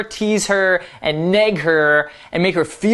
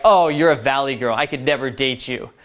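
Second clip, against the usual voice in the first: mean tease; 4 semitones lower than usual. Shown as a demonstration. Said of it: "it shouldn't be like".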